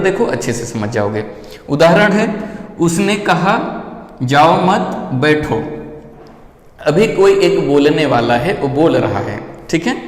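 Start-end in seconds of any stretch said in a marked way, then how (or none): 4.2-5.5 "जाओ मत" said as one unit, then "बैठो"; pause after मत. Shown as a demonstration. Teacher gives the speaker's intended sentence, pause after मत. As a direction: break after मत, so that बैठो stands alone. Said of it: "इसका उच्चारण का अर्थ ही अलग समझोगे".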